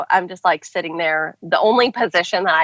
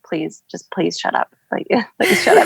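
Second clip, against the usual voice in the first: laughing plea. Retold or imitated. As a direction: beg him to stop, then laugh. Begging husband to stop joking.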